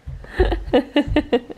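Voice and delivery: being tickled. Real, not acted. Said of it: "Michael just tickling him".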